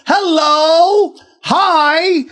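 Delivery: high mock gangster, hammed up; tough guy voice. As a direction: play a cocky gunslinger.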